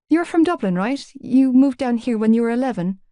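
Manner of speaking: put-on girl's dialogue, slightly lifted and questioning; lightly voiced Shannon, eager. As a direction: lightly voice an interested girl checking what she recalls.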